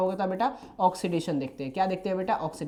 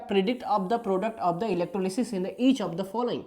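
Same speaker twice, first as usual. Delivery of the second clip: reading the question out word by word, very slow; slow dictation; much slower than usual. Shown as a demonstration. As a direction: spell out the question slowly for students to copy. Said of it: "आराम आराम से भी बोल रहा हूँ मैं". (बहुत धीमे, शब्द-शब्द पढ़कर)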